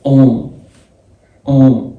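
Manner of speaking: أون as nasal 'on', M barely sounded; light touch of M. Shown as a demonstration. Teacher repeating O plus M, nasal أون with faint M. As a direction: hum the end of أون without a full M. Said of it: "لمسة كده بسيطة من ال M".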